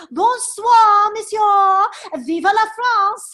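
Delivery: loud, ringing, slow cheer; triumphant farewell. Acted. Percy bids Chauvelin a triumphant, loud farewell. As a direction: fling the parting words out in triumph.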